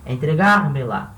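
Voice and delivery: "Entregar-me-la" with the stress on "gar". Shown as a demonstration. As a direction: lean on "gar" in "Entregar-me-la", then let "me-la" fall. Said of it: "vai levar acento aqui no gar". ("Entregar-me-la" com a tônica em "gar")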